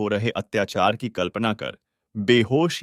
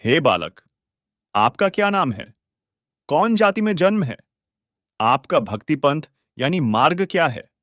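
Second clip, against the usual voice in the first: sage demands answers in a raised voice; loud questioning; 3 semitones higher, 3 dB louder than usual. Acted. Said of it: "ऊंची आवाज में प्रश्न किया".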